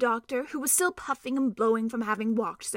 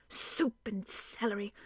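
softer, slow grumbling mutter; muttered under breath; 7 dB quieter, slower than usual. Acted. Trumpkin grumbling under his breath at the plan, soft mutter. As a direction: grumble to yourself. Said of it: "muttered under his breath".

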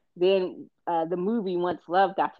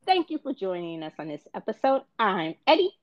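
bright host intro, pitched up; game show voice; 4 semitones higher than usual. Acted. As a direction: welcome them like a TV host. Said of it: "My game show voice is getting better".

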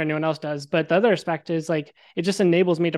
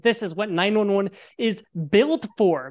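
retold exasperation; 2 semitones higher than usual. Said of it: "I'm enraged".

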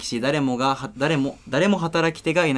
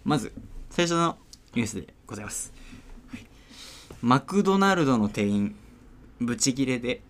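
ニュース読み; 2 semitones higher than usual. Acted. ニュースを読み上げる.

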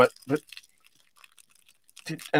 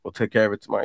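lightly voiced Cartman, low and much softer; Cartman-like mumble; 7 semitones lower, 6 dB quieter than usual. Imitating himself bailing on his friend in a mild Cartman voice. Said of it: "You are Cartman".

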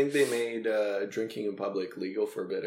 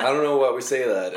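laughing puzzled quote; 4 semitones higher, 5 dB louder than usual. Retold or imitated.

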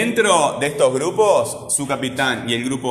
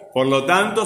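"tanto" raised high on TAN; stress on TAN in "tanto"; 6 semitones higher than usual. Shown as a demonstration. ("tanto" con TAN agudo y marcado)

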